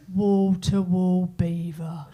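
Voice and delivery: boasting bloke. Retold or imitated. Mocking blokes home from a lads' night, slow bragging drawl. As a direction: brag it like a lad back from a night out. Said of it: "I've heard a man say this".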